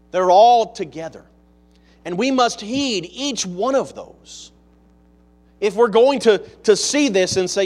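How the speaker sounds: emphatic preaching. Real, not acted. Preaches with rising force.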